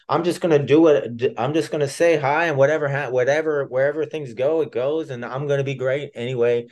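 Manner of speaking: carefree. Retold or imitated. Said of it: "devil may care".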